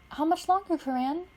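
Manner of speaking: put-on a young girl pressing for news, fed up; impatient Pidge. Pidge asking Coran how much longer, impatiently.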